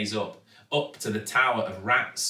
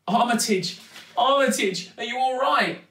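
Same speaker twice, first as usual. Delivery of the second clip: high, raised, anxious voice; worried little girl; 10 semitones higher, 4 dB louder than usual. A narrator's reading. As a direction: anxiously check on a rescued pet. Girl checks on rescued pet rat.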